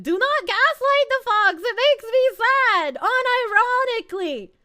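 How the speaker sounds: high, loud, whiny complaint; plaintive outcry. Pretend. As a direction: wail it like a wounded child. Mock-upset plea to chat.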